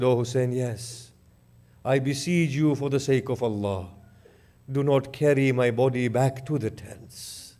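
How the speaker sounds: a dying man begging his brother; faint dying plea. Acted. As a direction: let the voice drain away as he begs. Dying Abbas's last request.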